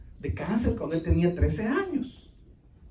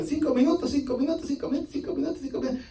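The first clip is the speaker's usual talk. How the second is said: mocking turn-taking; 6 semitones higher, 5 dB quieter, faster than usual. Mimics preachers taking turns.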